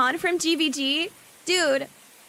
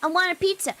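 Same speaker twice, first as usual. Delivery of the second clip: put-on higher, whiny little kid asking Mom; 6 semitones higher than usual. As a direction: beg for pizza like a small child. Voicing Italian kid.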